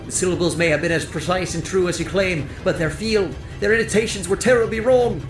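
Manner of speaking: high, heated berating; angry accusation. A narrator's reading. Corsalis blaming Faron for his brother's fate, angrily accusing. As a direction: lay the blame on him forcefully.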